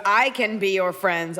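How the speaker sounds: slow, deliberate robot voice; girl robot. Retold or imitated. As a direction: imitate a robot, stretching each word out. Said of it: "it's like a girl robot".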